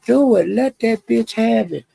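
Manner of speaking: high, hyped-up egging on; chat egging on. Retold or imitated. Broadway chat urging captain to confront Royalty, high hyped egging. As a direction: imitate the chat cheering for a fight. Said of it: "they were saying".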